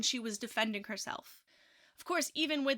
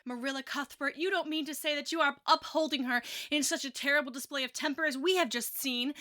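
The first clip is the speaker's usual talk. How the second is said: indignant; 2 semitones higher than usual. Acted. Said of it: "demanded Missus Rachel indignantly".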